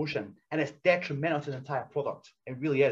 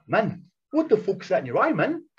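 raised-pitch mock incredulity; imitated disbelief; 4 semitones higher, 4 dB louder than usual. Opponent spotting his crusty eye, imitated disbelief. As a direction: act out someone taken aback, voice climbing.

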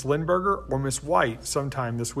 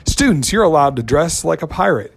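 loud excited; 7 dB louder than usual. Real, not acted. Hyping up pirate day.

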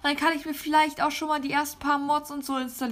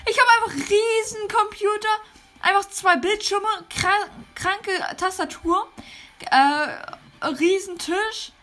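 amazed; 5 semitones higher, 3 dB louder than usual. Pretend. Marvelling at new game computer.

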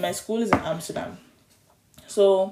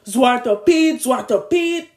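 a hint of a child's taunting call, higher and louder; 5 semitones higher, 6 dB louder, much slower than usual. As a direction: call out like a kid teasing from hiding. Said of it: "like, a child's voice".

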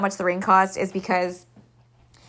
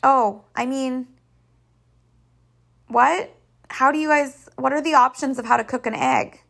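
put-on clueless girl voice; 5 semitones higher than usual. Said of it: "she was like".

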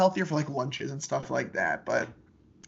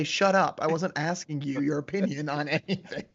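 mock snappy retort. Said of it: "To that I say".

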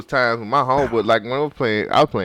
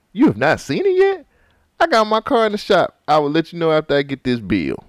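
mock dramatic reading; 5 semitones higher than usual. Shown as a demonstration. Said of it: "This is my dramatic reading".

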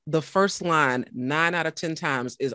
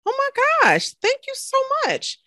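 much higher, squealing "oh my gosh"; gushing thanks; 3 dB louder than usual. Retold or imitated. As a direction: gush like you're overwhelmed. Retold own gushing reply.

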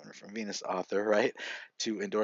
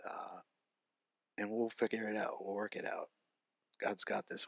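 soft, much quieter, loving; tender reassurance; 4 dB quieter than usual. Retold or imitated. His wife comforting him after he nearly jumped, tender and soft.

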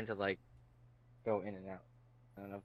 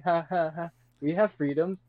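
nervous laughter; 6 semitones higher, 4 dB louder than usual. Retold or imitated. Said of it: "like, nervously laughing".

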